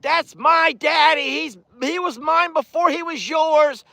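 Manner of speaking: high, sassy cow voice speaking for Rita; jealous cow protecting her daddy; cow's voice, possessive and high; voicing the cow. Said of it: "Rita's like".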